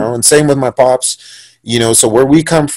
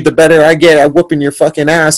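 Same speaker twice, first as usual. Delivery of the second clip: mock yelled trash talk, slightly higher; half-raised voice, taunting; mild retold yell; 3 semitones higher than usual. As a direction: retell a yelled threat without fully shouting. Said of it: "I start yelling".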